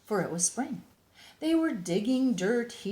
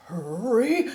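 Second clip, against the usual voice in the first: cried; 4 semitones higher, 7 dB louder than usual. Acted. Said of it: "he cried".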